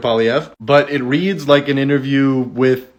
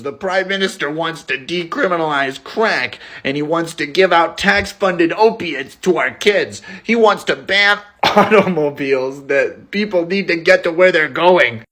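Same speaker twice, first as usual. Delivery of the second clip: raised pitch, mock ranting politician; unhinged ranting; 4 semitones higher than usual. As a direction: ham up the growing rant. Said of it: "Pierre just gets more and more unhinged".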